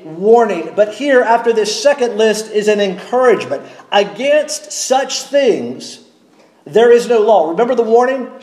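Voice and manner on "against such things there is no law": Against such things drawn out slowly, then there is no law landed; slow emphatic reading. Shown as a demonstration. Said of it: "Here's the encouragement".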